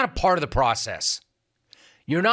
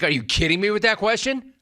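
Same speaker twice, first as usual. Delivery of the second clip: incredulous mock; 7 semitones higher than usual. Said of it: "It's like".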